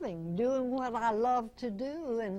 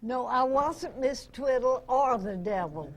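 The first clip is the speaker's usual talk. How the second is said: laughing through a denial, a bit louder; 4 dB louder than usual. Real, not acted. Amused guest denies playing either title role, laughing. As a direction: chuckle your way through the no.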